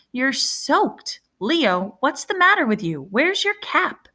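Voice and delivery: put-on alarmed brother finding the boy soaked; older brother Caleb startled. A narrator's reading.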